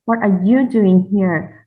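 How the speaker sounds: "you" stressed, "doing here" lighter. Shown as a demonstration. Presenter showing you, not the others, stress on "you". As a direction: point the question at "you". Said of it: "it's with emphasis on you".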